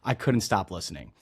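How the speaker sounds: polished host read, upbeat and even; smooth scripted welcome for the listeners; podcast intro read. Acted. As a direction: read the show opener like a seasoned host. Scripted podcast intro over music.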